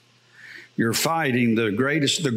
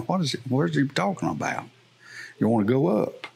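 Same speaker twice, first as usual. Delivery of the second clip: mock confusion, puzzling over the phrase; puzzled people thinking. Congregation confused by Bob's invitation, mild baffled muttering. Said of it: "everybody's standing there thinking".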